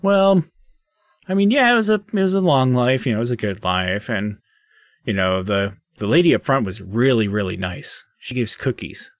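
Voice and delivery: a hint of a small, wistful gnome; gnome spirit. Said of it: "the little gnomish spirit's like".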